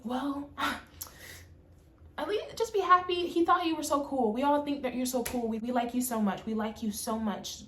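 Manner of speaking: a hint of a condescending friend soothing her; mimicking a coworker's fake niceness; mock sweet coworker. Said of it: "Ashley brings her happy hips over".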